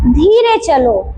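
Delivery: slow, drawn-out model phrase; slow demo. Shown as a demonstration. Teacher models a slow walk phrase for kids. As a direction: say it slowly, like the baby walking. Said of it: "तो हिंदी में क्या बोलते हैं".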